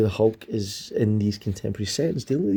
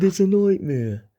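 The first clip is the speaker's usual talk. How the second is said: dramatic repeat; 8 semitones higher, 4 dB louder than usual. Shown as a demonstration. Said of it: "I said".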